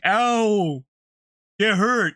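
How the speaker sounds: voicing the dog. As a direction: whimper it like a hurt pup. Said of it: "Rug was like".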